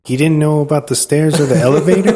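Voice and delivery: laughing quote. Retold or imitated. Quoting stunned onlookers, laughing.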